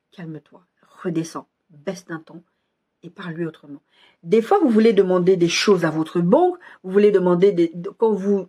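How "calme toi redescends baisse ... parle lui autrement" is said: soft whisper, slowing down; whispered inner voice. Retold or imitated. The Spirit telling her to calm down, whispered softly. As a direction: breathe the words like a quiet inner prompting.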